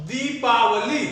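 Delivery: दीपावली with the दी held long; teacher's careful model of दीपावली, long दी. Shown as a demonstration. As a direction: stretch the first vowel of दीपावली. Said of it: "झटके में जाएगा दी".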